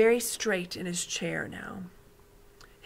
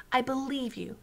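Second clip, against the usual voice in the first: softly; 6 semitones higher than usual. Acted. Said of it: "she said softly".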